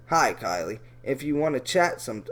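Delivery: a low, creepy reading of the message. Shown as a demonstration. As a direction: read it like a creep, dropping low. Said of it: "let me try to do a Brian Posner voice".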